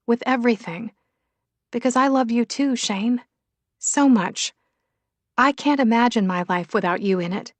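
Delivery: lightly voiced woman, pitch often lifted; heartfelt Willow. Willow forgives Shane and declares her love, heartfelt. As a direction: declare it earnestly, rising on the key phrases.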